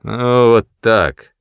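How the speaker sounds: slow, smirking satisfaction. Acted. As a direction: drag it out with a grin. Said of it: "он усмехнулся". (с усмешкой)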